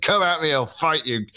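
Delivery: a jumpy high "come at me" in mock panic; half-scared, half-brave dare; imitating himself panicking, a touch shrill; panicked bravado. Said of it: "Proper panicking".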